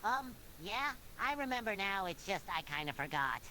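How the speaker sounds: hesitant, lightly sheepish admission; quiet, embarrassed. A narrator's reading. SpongeBob admits he forgot the episode, mildly embarrassed. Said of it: "said in a quiet, embarrassed tone".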